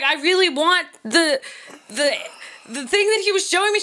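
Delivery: put-on pleading child. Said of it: "I was like".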